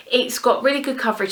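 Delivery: breathless after running upstairs; a little winded, catching breath. Real, not acted. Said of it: "Sorry, I'm so out of breath".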